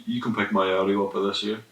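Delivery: talking around a lollipop; sucking a lollipop. Real, not acted. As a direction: speak with candy in mouth. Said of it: "Are you sucking a lollipop?".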